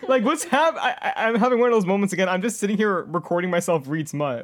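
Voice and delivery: loud, high, laughing disbelief; excited outburst. Real, not acted. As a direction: shout it out, laughing at yourself. Laughing outburst at reading smut.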